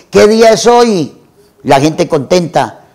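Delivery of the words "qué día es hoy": calling out the window, raised and high; mock yell from the window to the street; excited call down to passers-by; retold shout. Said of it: "le empieza a gritar a la gente".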